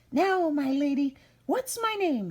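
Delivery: high, loud taunting imp; high gloating goblin; little man's voice. Acted. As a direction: tease her with the question.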